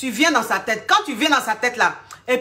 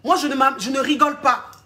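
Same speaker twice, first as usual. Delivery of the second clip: a client protesting her toughness; indignant client; 4 semitones higher than usual. Retold or imitated. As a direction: client insisting she's not joking. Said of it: "Elle dit".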